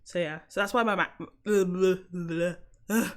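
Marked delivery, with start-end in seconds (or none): 1.4-3.1 garbled blah-blah ending in ugh; tongue-tied babble. Real, not acted. Speaker tripping over why their accent is this way, tongue-tied babble. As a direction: stumble into loose babble, then groan. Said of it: "tongue-tied".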